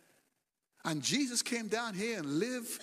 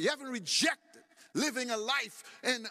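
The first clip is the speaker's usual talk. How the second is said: preaching shout. Acted. Preacher's rising rebuke.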